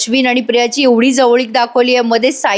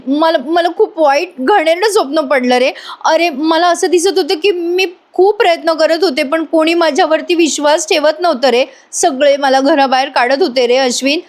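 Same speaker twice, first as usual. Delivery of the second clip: higher, plaintive, halting start; acted distress; 5 semitones higher than usual. Priya recounting her nightmare to Ashwin, upset. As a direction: whimper out a bad dream, lightly acted.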